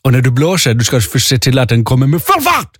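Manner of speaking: mock German accent at ordinary pitch. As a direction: explain it as a German instructor. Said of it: "hon pratade lite så här med tysk accent".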